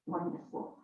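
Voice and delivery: breathed, whispered echo of wonderful; soft whisper. Real, not acted. Speaker praising her course, echoing wonderful in a whisper. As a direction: let wonderful fade to a whisper. Repeats wonderful, then drops away.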